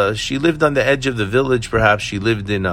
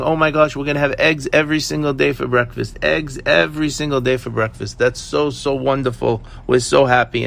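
retold childlike glee, lightly acted in a raised voice; excited kids; 5 semitones higher than usual. Kids jump up and down over daily eggs, excited. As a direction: imitate children jumping up and down, pitched higher. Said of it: "kids are jumping up and down saying".

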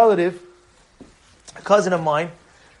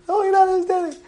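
overjoyed; 10 semitones higher than usual. Retold or imitated. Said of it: "This is what he's telling me".

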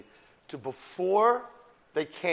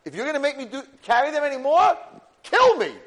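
high, loud, building outburst; desperate demand; 9 semitones higher, 7 dB louder than usual. Retold or imitated. Moshe telling Hashem he can't carry them, desperate demand. Acts Moshe begging God to kill him.

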